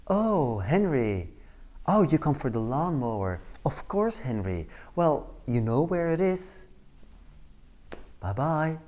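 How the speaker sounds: mildly acted meek compliance, avoiding confrontation; sub-assertive. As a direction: give in politely, dodging what you meant to say. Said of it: "we call that sub-assertive behavior or running away behavior".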